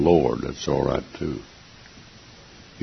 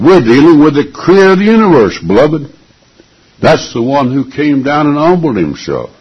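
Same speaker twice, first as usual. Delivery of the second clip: fervent preaching; 8 semitones higher, 4 dB louder than usual. Real, not acted. Preacher at full force.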